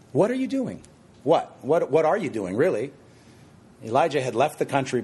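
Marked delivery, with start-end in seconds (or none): 0.1-0.8 WHAT ARE YOU lifted high, dropping on DOING; stress on WHAT. Shown as a demonstration. Preacher rereading the question to Elijah, high emphasis up front. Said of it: "emphasize different words as I read it". 1.2-2.9 WHAT repeated and punched, then ARE leaned on; stress on WHAT. Shown as a demonstration. Preacher probing Elijah's activity, punching WHAT. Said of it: "I like to emphasize different words".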